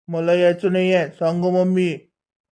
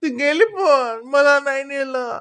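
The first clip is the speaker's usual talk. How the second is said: crying whine; 5 semitones higher, 4 dB louder, slower than usual. Acted. Boy left behind, cries.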